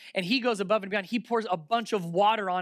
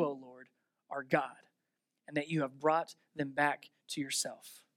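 softer, lower earnest prayer voice; quiet prayer; 3 semitones lower than usual. A narrator's reading. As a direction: pray it humbly, not shouting. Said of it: "He just prayed".

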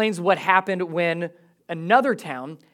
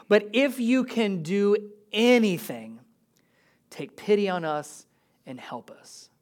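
pleading father. Acted. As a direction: plead for help, fading at the end. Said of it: "this plead of a father".

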